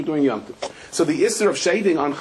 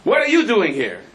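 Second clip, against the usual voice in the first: startled retort; 3 semitones higher than usual. Retold or imitated. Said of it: "I'm saying".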